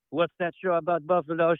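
the title said in a mock French accent; French accent, stress on Buffalo; snooty French accent. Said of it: "I'll make fun of the French".

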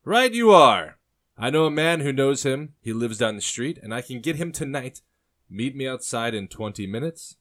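high, loud, flustered barkeep; voice cracking. A narrator's reading. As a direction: yelp the first words, then hurry to oblige. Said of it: "The barkeep's voice cracked while he spoke".

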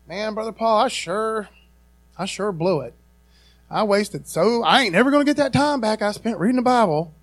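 hammed-up regretful complaint, pitch up a little; mock regret. Preacher mimics a church member regretting Bible reading, mock regret. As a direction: imitate a congregant moaning about wasted time. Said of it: "you're not gonna be like".

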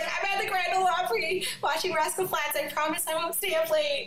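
high, bright-eyed gushing over the phone; reply to the boss, a bit starstruck and giddy; excited reply. Retold or imitated. Answering Sammy's call at the Opry.

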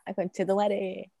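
soft, slow sigh of a curse; weary muttered swear. Retold or imitated. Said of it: "soy yo la buena para el deseo".

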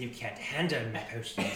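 a hint of a gruff old merchant; lightly voiced proud potion seller; gruff proud merchant pitch. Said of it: "you hear him say".

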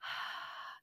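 quiet unvoiced outbreath; short soft exhale with no vibration; unvoiced breath. Shown as a demonstration. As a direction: breathe out, no voice at all. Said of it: "breathing out".

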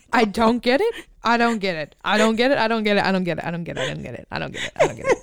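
looping disbelief, trailing off; repeated exasperation. Real, not acted. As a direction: chant it over and over, fading. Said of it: "I can't stop saying".

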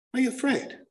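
high, pointed question; needling challenge. Real, not acted. Speaker challenging those who won't answer questions, high needling challenge. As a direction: pitch it up to needle them. Challenge repeated in higher pitch.

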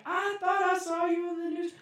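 high singsong put-on lady voice; loud, high mock recognition; neighbour imitation. Neighbour recognising him from television, singsong high imitation. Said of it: "this lady was like".

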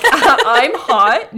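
a loud, hammed-up vain princess. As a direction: brag it like a shallow beauty. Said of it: "No, she's like".

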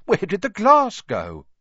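high, stammering disbelief; stunned keeper. A narrator's reading. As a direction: stammer out the shock. Zoo keeper in shock.

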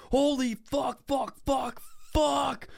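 high-pitched mock cries of pain; retold pained yelling. Storyteller acting out his crushed toe to a friend, high mock pained yelps. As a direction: re-enact hopping agony in a strained high voice. Yelping after barrel hit toe.

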